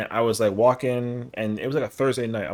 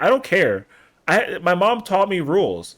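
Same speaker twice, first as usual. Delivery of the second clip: higher, louder flustered protest, quoting himself; 6 semitones higher, 4 dB louder than usual. Retold or imitated. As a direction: insist on your mom's rules, rattled. Refusing while she changes.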